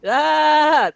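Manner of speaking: high, held "ah" on one note; deadpan imitation of a wooden actor screaming; mock monotone scream. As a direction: feeble fake scream on a single pitch. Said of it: "that's the scream".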